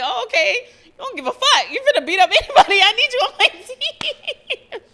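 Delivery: high and loud, laughing through it; mock-impressed boss, cracking up; laughing imitation of an impressed boss; laughing quote. Voicing the employers, laughing.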